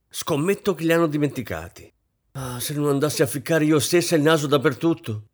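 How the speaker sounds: high, loud fussing hostess; fussy mistress scolding. A narrator's reading. Mistress nagging the waiters over the buffet, high fussy scolding. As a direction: bustle about nagging every servant.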